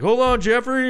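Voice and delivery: a hint of a yelped hold on; mock urgent plea. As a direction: play it as a panicked stop request. Voicing self in painful scene.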